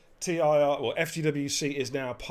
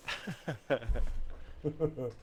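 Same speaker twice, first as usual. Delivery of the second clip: laughing; 3 dB quieter than usual. Real, not acted. Host after promising a personal message, chuckling. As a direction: chuckle in a short run.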